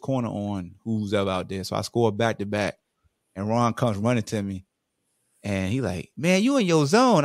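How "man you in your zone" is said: high, loud teammate hype; retold excited praise. Teammate running over after a score, excited high praise. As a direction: hype him up, pitch lifted high.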